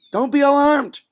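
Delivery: loud, high rallying cry of "don't be alarmed"; rousing pep talk. Acted. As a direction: proclaim "don't be alarmed" like a priest firing up soldiers. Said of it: "He's telling them".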